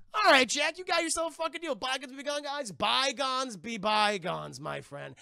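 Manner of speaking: pirate captain sealing a shady deal with Jack, hammed up; mock Barbossa. Barbosa voiced in movie recap.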